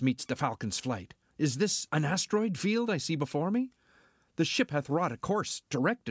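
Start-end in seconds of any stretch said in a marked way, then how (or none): 1.4-6.1 higher, startled disbelief at the view; a pilot thrown by what he sees; surprised. Acted. Pilot finds planet gone.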